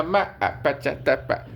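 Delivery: मम्मा first, then आ, पा, चा, ता, पा as separate nonsense syllables; imitated baby babble. Small child showing off to mother, babbling मम्मा, आ, पा, चा, ता, पा. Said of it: "छोटा बच्चा अपनी मम्मी को बोले".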